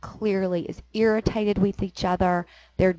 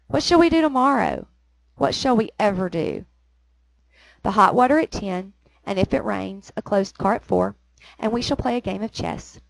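poem reading. Acted. Reads the poem's dialogue aloud.

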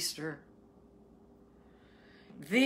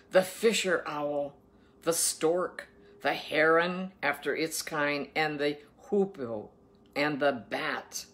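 slow, emphatic Bible reading; scripture reading; slower than usual. Acted. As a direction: proclaim the food laws, weighting each word. Reads scripture aloud.

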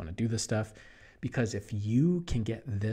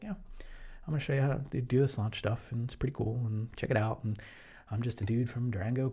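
laid-back Jeff. Retold or imitated. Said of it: "He's like".

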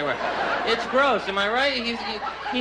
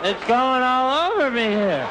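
mock numb mouth; 4 semitones higher, 6 dB louder, slower than usual. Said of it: "And you go".

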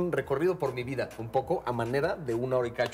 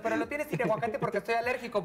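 annoying moviegoer voice; 7 semitones higher than usual. Retold or imitated. Mimics annoying guy in cinema.

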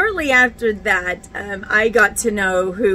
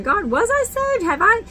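pleading prayer. Retold or imitated. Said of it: "I asked God off and on".

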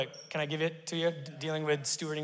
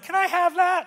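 mock pleading; 6 dB louder than usual. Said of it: "I'm like".

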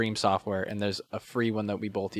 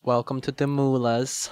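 mock Australian intro; 3 semitones higher than usual. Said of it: "intro voice sounds like you're Australian".

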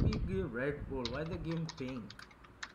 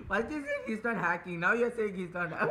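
breaking into laughter. Real, not acted. Teasing a friend who now cries hacker, breaking into laughter. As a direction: talk that gives way to laughing.

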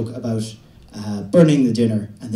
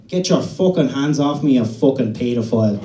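put-on Dublin kid yelling; 2 semitones higher, 5 dB louder than usual. Adopted Dublin boy yelling when patted on the head. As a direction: snap at the adult like a cheeky Dublin kid. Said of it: "He'd say".

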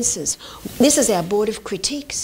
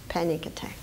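whisper; 7 semitones lower, 11 dB quieter, faster than usual. Acted. Soft end of excited line.

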